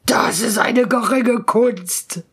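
slow, boastful ghost voice; full of arrogance, dismiss it as trifling; haughty spirit. Acted. Spirit boasting to the doubting student, haughty. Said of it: "sprach voll Hochmut".

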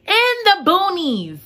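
high, slow repeat in dismay; slow, high mock horror again; dramatic echo. Real, not acted. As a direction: echo it, just as shocked.

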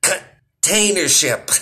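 hammed-up cry of pain; mock pained curse. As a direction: wince out a fake curse. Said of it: "and I'm like".

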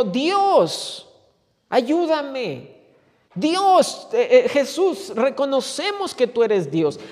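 súplica en tono agudo, sin llegar al grito. Acted. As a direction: clama a Dios con voz elevada, como pidiendo auxilio. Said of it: "Cuando ellos gritan". (súplica clamorosa)

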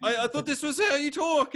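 high-pitched bewildered customer; sheepish mock protest. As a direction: plead your case in a high voice. Acted embarrassed customer answering back.

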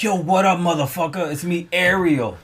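put-on Black American greeting; mock Black American accent, drawn-out ending. Greeting as Ariel, mock Black American accent. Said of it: "he gave me a black accent".

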